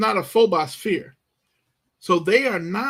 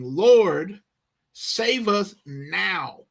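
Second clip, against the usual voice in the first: urgent plea; 3 semitones higher, much slower than usual. Retold or imitated. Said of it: "There's urgency here".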